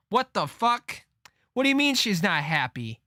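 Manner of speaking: shocked and baffled at the news; stunned outburst. Real, not acted. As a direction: pitch jumps up in disbelief. Reacts to she's not happy.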